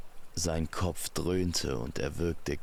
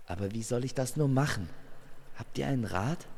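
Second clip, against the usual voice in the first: helpless plea; 6 semitones higher, much faster than usual. Acted. Amor at a loss asks advice.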